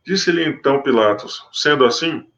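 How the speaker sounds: measured, solemn Bible reading; scripture reading. Acted. Preacher reading the Gospel to his listeners, solemn. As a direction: read the passage to the congregation with gravity.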